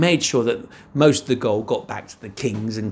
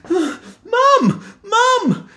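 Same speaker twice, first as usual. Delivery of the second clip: high, loud call for Mum; 6 dB louder than usual. Acted. Jack calling his mother loudly in a high voice.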